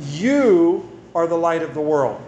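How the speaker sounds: "You" leaned on, then falling; stress on you. Shown as a demonstration. Pastor presses home that it's them, leaning on "You". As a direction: put the weight on "You". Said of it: "he's emphasizing".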